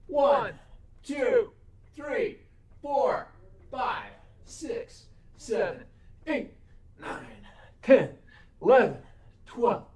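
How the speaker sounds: strained counting mid push-ups. Real, not acted. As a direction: grunt out the count while exercising.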